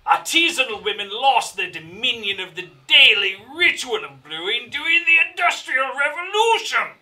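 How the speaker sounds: reading out a label in a showy voice; label read aloud. Acted. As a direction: read it like a grand announcement. Reads the beer label aloud.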